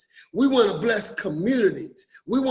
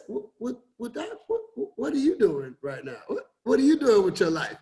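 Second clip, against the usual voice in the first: lightly voiced nosy coworker; nosy former coworker. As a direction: press her for answers, stumbling. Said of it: "she kept saying".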